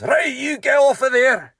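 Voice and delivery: loud high shouting order; granddad shouting at player. Retold or imitated. Granddad yelling at a player to get off, loud shout. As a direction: bellow him off the pitch.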